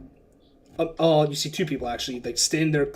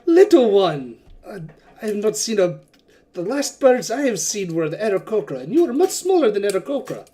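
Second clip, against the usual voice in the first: higher, louder delighted surprise; delighted merchant; 4 semitones higher, 4 dB louder than usual. Acted. Wakanga marvels at the small bird character, higher and louder.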